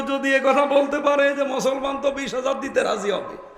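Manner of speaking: rousing sermon, words flung out to the crowd; preaching. Acted. Preacher rousing the congregation about God's promise, fervent preaching. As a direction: preach it with full fervour. Sermon resumes after mic fix.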